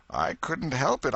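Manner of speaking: high, mournful moan on help; moaning plea. Acted. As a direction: moan it in misery. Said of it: "Potter moaned".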